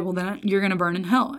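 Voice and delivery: soft, matter-of-fact verdict, no screaming; dead serious. Retold or imitated. Older preacher judging a student on the grass, dead serious. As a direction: imitate quiet, grave certainty. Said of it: "He was dead serious".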